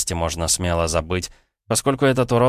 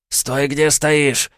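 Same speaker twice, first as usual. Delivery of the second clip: slow menacing hiss, higher and louder; злобно прошипел; 8 semitones higher, 4 dB louder, much slower than usual. Acted. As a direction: hiss the threat through the hostage. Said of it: "прошипел он".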